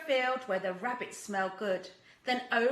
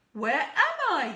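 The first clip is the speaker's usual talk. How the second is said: amazed; 4 semitones higher, 6 dB louder than usual. Acted. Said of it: "gazed in amazement".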